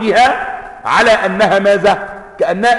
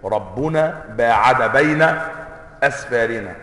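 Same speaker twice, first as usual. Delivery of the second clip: قراءة خبرية بطيئة; 7 semitones lower, 4 dB quieter than usual. Shown as a demonstration. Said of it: "هذه جملة خبرية".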